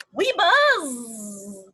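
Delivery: a touch of tiny bee voices; lightly voiced little bees chanting together.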